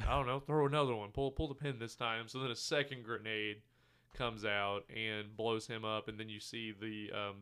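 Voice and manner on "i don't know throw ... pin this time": mock offscreen shout. Offscreen voices arguing over grenade.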